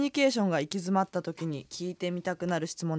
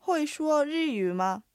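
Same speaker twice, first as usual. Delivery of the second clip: higher, very slow model reading; pronunciation practice; 6 semitones higher, much slower than usual. Shown as a demonstration. Teacher models the sentence for repetition, slow and careful. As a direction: stretch every tone clearly for learners. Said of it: "もう一度おさらいしてみましょ".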